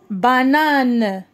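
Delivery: "Banane" with the last syllable held, falling. Shown as a demonstration. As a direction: draw "Banane" out as ba-nane. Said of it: "نقراو les syllabes". ("Banane" مقطعًا مقطعًا)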